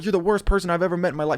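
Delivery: mock frantic, tearful, high-pitched hysterical yell. Retelling a classmate's outburst at a prank: imitating someone screaming. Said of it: "She's screaming".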